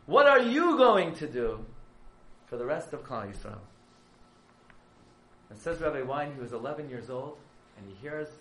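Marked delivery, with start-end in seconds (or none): 0.1-3.6 very high, loud, slow preaching cry; impassioned call. Retold or imitated. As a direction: cry it out like a lion. Herzog calls out to the boys.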